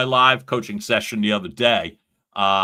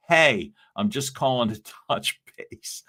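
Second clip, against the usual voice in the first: mocking the rookie line while laughing; cracking up mid-line; real laugh breaking into a mock sales call. Real, not acted. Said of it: "I can't even say it without laughing".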